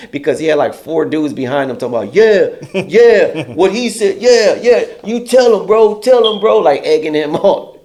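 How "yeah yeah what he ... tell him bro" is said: mock hype crew. Four dudes egging him.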